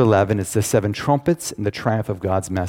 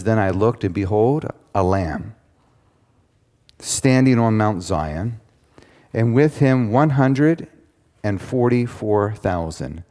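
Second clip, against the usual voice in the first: slow, measured Bible reading; scripture reading; slower than usual. Acted. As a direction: read the verse slowly, weighing each phrase. Reads the Bible passage aloud.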